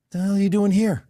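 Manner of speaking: retold furious yell, pitched high and loud; angry shout. Restaurant owner yelling at strangers in his lot, angry shout. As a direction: bark it at the trespassers like a fuming owner.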